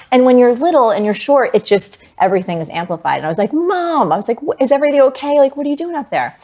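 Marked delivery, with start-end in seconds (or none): 3.5-4.1 high-pitched, alarmed "Mom"; worried kid calling out; retold call to mom. 4.4-6.4 high-pitched, concerned questioning; mock-alarmed kid voice; retold worried child. Worried child questioning mom on roof.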